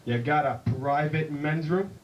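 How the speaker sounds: slow, low movie-cowboy drawl; John Wayne. Acted. John Wayne asking a bartender, slow drawl. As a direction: drawl it slowly like a Western star. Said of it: "He says".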